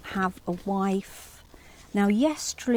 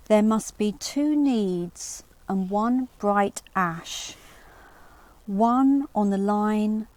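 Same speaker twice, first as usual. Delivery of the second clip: put-on measured reading of an old riddle; poem reading. Lecturer reading the riddle to students, measured verse delivery. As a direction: read it out like verse to the class. Reads riddle translation aloud.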